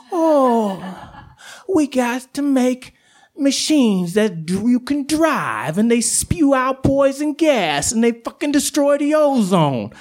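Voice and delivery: high, drawn-out mock complaint; mocking whine. Coyote mimics humans tired of walking, mocking whine. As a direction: wail it slowly, making fun of human laziness.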